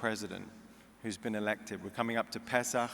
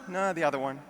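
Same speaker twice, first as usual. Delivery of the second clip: Jewish mother; 4 semitones higher, 3 dB louder than usual. Retold or imitated. Mother answers friend.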